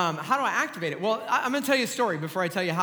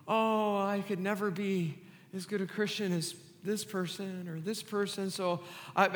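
a soft, much quieter mock of an insecure Christian; timid self-pity; 6 dB quieter than usual. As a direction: shrink the voice down, hiding in the shadows. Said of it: "We go".

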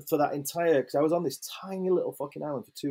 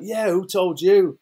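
put-on slow, higher and louder cheeky child; little girl's reply; 6 semitones higher, 9 dB louder, slower than usual. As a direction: act a proud cheeky kid. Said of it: "And she's like".

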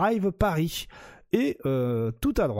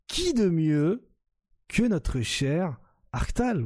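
slow, higher teasing introduction; drawn-out hype; 3 semitones higher, slower than usual. Real, not acted. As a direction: stretch it out like a show host.

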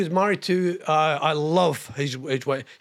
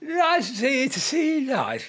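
higher, showbiz game show host lilt; Bruce Forsyth impression; 7 semitones higher than usual. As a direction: beam it out to the studio audience like Brucie. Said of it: "Oh, I can still do that one".

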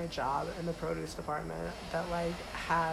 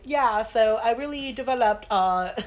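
lightly imitated British accent; 3 semitones higher, 3 dB louder than usual. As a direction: mimic a British actress in an interview. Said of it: "with her British ass accent".

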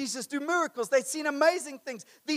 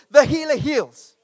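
emphatic preaching; 3 semitones higher, 10 dB louder, slower than usual. Acted. Preacher repeating the key line.

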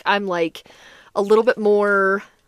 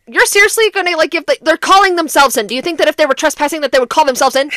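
indignant, incredulous imitation of a friend; mouthing off; 3 semitones higher, faster than usual. Friend mouthing off at the officer, indignant. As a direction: challenge the officer with raised-voice disbelief. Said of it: "her friend starts mouthing off".

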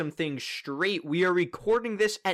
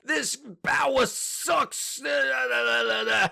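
slow, high Brooklyn heckler; mock a Brooklyn heckler; Brooklyn accent; 8 semitones higher, slower than usual. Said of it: "In the most Brooklyn accent possible".

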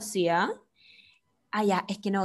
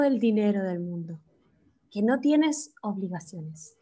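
mock soothing voice. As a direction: lull the listener like a meditation guide. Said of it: "Voy a hacer una voz distinta".

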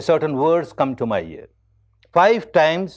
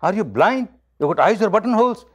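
higher-pitched, quick mock scolding; mildly acted insult, raised pitch; retold abuse; 6 semitones higher than usual. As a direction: imitate an indignant son telling off his father. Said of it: "my son abusing me".

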